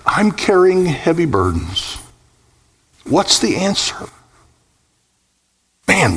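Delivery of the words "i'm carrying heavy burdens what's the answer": put-on raised-pitch voice of a burdened boy, mildly plaintive; acted weary plea, high and drawn from a child's burden; weary crying out. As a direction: cry out wearily as a little boy, without shouting. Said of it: "is crying out".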